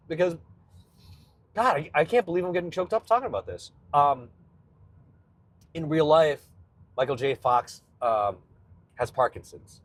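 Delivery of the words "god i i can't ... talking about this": higher, quick choked-up voice; really welling up in disbelief. Real, not acted. Host amazed at own emotion over the video, choked up.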